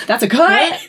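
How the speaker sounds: high mock set call, stretched out; calling cut. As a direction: imitate someone calling out across a film set. Crew man calls cut on set.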